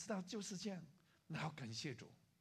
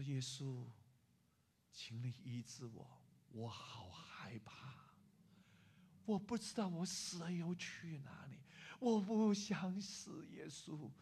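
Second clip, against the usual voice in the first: fearful tearful plea. Acted. Frightened student begs Jesus for healing, fearfully. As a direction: beg for healing, understated then drawn out. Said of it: "他一直哭，一直哭".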